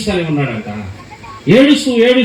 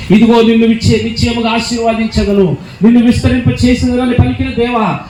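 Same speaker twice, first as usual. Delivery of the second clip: fervent prayer; 5 dB louder than usual. Real, not acted. Preacher breaks into prayer.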